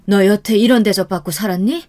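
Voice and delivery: exasperated scolding, pitch rising in places; moderate, simmering acted anger; angry mother. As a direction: scold your daughter out of indignation. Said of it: "어머니는 화가 단단히 나셨고".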